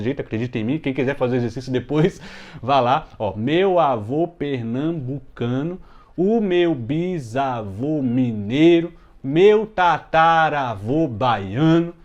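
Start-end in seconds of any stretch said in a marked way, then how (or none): 3.4-11.9 slow, measured, sing-song reading; rhythmic scansion. Shown as a demonstration. Teacher reading verses to show they scan, slow and rhythmic. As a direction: read the verses in even metric beats. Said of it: "já dá pra cantar".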